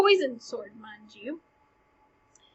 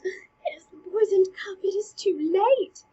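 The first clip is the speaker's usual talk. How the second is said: hushed, breathy stage aside; aside whisper; 6 semitones higher, 4 dB louder than usual. Acted. King muttering to himself as queen drinks, whispered aside. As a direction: whisper it to yourself, dismayed. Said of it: "looks to the side and goes".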